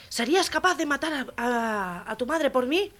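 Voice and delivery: high, commanding sergeant voice; barking sergeant. Acted. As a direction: demand an answer from a recruit. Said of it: "le dice el sargento al andaluz".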